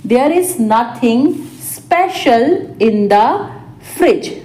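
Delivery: small chunks with pauses; spaced-out repeat. Shown as a demonstration. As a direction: dictate it piece by piece. Teacher repeats translation word by word. (रुक-रुककर, टुकड़ों में)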